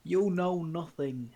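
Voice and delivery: drawn-out booming line; slow loud quote. Retold or imitated. Repeating the famous line to friends, slow and loud. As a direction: stretch it out, loud and heavy.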